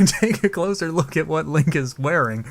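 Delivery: slow, laughing retake. Real, not acted. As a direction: laugh through the corrected line. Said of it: "God damn it".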